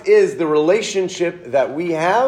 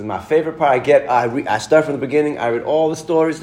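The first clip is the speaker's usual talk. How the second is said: put-on Southern accent; faster than usual. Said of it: "in his great Southern accent".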